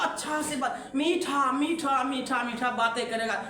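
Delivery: soft, sugary coaxing; sweet talk. Shown as a demonstration. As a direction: demonstrate sweet, loving talk gently. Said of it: "प्यार से बोलेगा".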